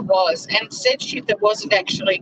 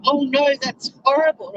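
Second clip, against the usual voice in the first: mock pearl-clutching; 5 semitones higher than usual. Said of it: "clutching their pearls".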